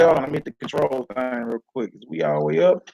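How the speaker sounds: glitchy robotic connection; choppy internet robot sound. Real, not acted. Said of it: "you sound like a robot".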